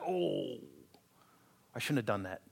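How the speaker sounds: quiet remorseful self-talk; guilty murmur. Acted. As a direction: mutter it like a pricked conscience. Voicing inner conscience quietly.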